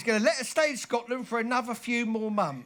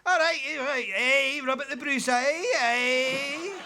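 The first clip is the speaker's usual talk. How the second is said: put-on broad Scottish accent; 3 semitones higher, 3 dB louder than usual. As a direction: call out in broad Scots. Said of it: "only me that ever learned to speak Scottish".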